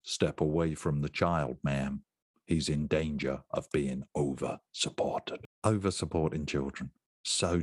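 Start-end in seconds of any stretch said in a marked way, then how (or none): 0.0-5.5 American police officer. Acted. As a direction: lower mock American cop order. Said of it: "using my American police officer voice".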